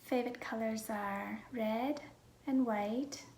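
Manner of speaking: hushed, half-whispered self-introduction; soft-spoken vlog. Real, not acted. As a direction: talk gently, close to a whisper.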